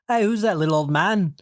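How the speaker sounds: 1 a singer. Retold or imitated. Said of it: "that's my go-to whenever I'm doing, like, a singer".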